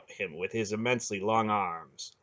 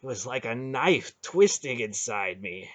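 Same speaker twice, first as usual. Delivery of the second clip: shaking voice; 3 semitones higher than usual. Acted. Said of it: "in a shaking voice".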